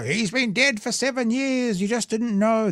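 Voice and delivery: high, slow, eerie Grim Reaper; Death's voice. Acted. Imagining Death announcing a politician's passing, slow eerie Reaper voice. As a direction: intone it slowly like Death itself. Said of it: "Maybe Death would come out and go".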